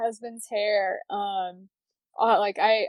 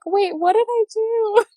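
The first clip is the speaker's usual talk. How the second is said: higher, louder mock panic; sudden oh-no realisation; mock regret; 11 semitones higher, 5 dB louder than usual. After quitting, realising the mistake, high mock panic. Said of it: "you'd be like".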